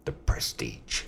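hushed reverent whisper. Real, not acted. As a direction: breathe the title like a secret. Reverent mention of film.

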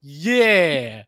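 long, loud party cheer; hammed-up excitement. Host acts out watching party videos, mock excited. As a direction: shout it like you love the party.

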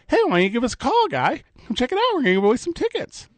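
high-pitched, breezy on-air invitation; quick, singsong radio plug; upbeat call-out. Retold or imitated. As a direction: lift the voice high, like rallying listeners to phone in. Imagining his own on-air call-out.

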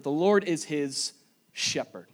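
"shepherd" set apart after a pause; stress on shepherd. Shown as a demonstration. Preacher points congregation to the key word, stress on "shepherd". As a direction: hold back, then land on "shepherd" alone. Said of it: "Let's emphasize that word".

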